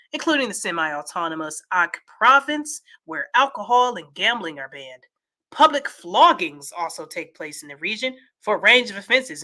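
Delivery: steady, measured read-aloud; newsreader-style delivery; news article read. Acted. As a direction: read the report out evenly.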